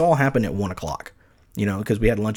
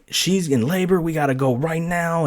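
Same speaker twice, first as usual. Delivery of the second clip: retold urgency; 6 semitones higher than usual. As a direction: replay frantic insistence at normal volume. Retold urgent announcement at hospital.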